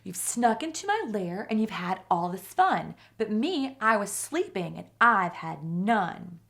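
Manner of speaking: a woken bear sulking at the party guests; grumpy bear complaint. Acted.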